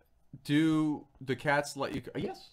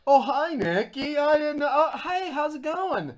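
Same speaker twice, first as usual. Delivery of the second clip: flustered dad; 14 semitones higher, 9 dB louder, slower than usual. Retold or imitated.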